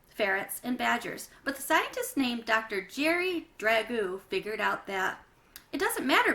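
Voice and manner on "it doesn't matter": loud, high, cutting him off; sharp interruption. Acted. Janie cutting off her brother mid-lecture, loud and sharp. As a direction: snap to stop him talking.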